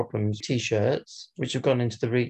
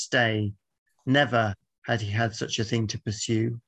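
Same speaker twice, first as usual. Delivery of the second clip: slow, measured poem recital; poem reading. Acted. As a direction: read the villanelle with weight. Reads his villanelle aloud.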